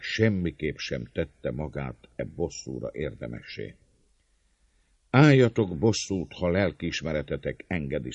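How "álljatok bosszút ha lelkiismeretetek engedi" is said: raised opening cry, easing off after; impassioned orator, moderately raised; fervent. A narrator's reading. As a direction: appeal to the crowd with fervour. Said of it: "szólt lelkesedve".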